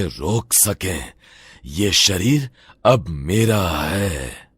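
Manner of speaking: drawn-out gloating threat; slow demonic menace. Acted. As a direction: savour every word of the possession. Demon claims the body.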